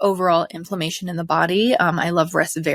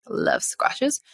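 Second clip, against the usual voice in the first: whispered aside; 7 semitones higher, 4 dB quieter than usual. Real, not acted.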